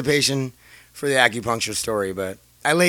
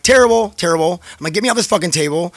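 raised, urgent mock panic; retold freaking out; 5 semitones higher, 5 dB louder than usual. Patient to the returning doctor, retold freak-out. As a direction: act out demanding to be freed. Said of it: "I'm, like, freaking out".

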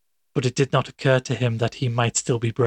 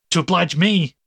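mock-surprised cry; 5 semitones higher, 3 dB louder than usual. A narrator's reading. McFarlane echoes Fetz's words in a mild mock-surprised cry. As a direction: voice jumps up on the question. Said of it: "cried Wolfe".

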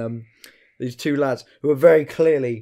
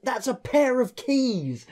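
retold shout; 11 semitones higher, slower than usual. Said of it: "like, shouting".

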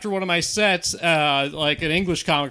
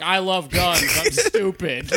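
put-on Southern accent; slower than usual. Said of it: "do a Southern accent and be like".

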